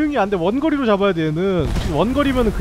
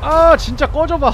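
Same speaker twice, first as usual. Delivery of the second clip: higher, louder, slow angry yell; annoyed yell; 8 semitones higher, 8 dB louder, slower than usual. Real, not acted. Gamer telling the charging boss to get lost, angry shout. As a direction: drag it out, fed up and furious.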